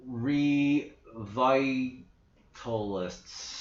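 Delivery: sounding the word out slowly, Revitalists drawn out syllable by syllable; slow, careful try. Shown as a demonstration. Naming a faction, testing the word aloud, slow and careful. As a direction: test how Revitalists rolls off the tongue, slowly. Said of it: "that sounds a little hard to say".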